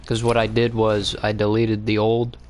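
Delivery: talking while chewing food; words around a mouthful of food; mouth full. Real, not acted. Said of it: "let me finish chewing this".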